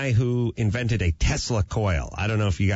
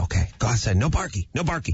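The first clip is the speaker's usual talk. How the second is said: put-on baby talk to dog; faster than usual. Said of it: "speak in a jumbled, retarded kid's cadence".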